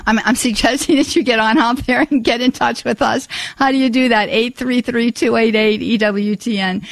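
slightly out of breath after running. Real, not acted. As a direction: talk while catching breath. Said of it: "so I'm a little out of breath there".

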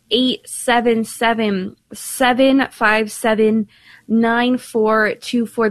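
slow, careful number read-out; measured on-air phone number. Acted. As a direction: spell out each digit slowly for callers. Repeating the call-in number.

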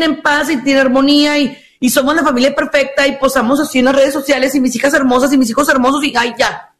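smug perfect mom. Retold or imitated. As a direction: gush about the perfect family. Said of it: "Llegan los papás así todos estoicos".

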